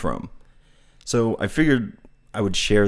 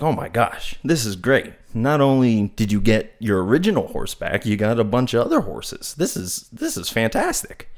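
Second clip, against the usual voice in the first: emotional delight; 2 semitones higher than usual. Retold or imitated. Neighbor congratulating the farmer on the returned horses, excited gushing. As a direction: gush like a thrilled neighbor. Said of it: "he has a very emotional response".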